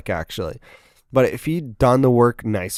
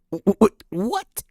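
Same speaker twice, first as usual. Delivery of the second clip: stunned stammer; 10 semitones higher, slower than usual. Real, not acted. Stammering at the sight.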